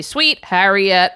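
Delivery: slow, drawn-out movie catchphrase; quoting husband. Retold or imitated. Wife imitating husband's favourite film quote, drawn-out catchphrase. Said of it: "when he would say".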